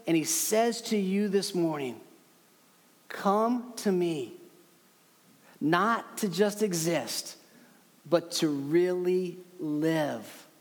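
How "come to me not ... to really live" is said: a gentle, unhurried call home; tender invitation. Acted. Preacher voicing Jesus inviting listeners to come, slow and tender.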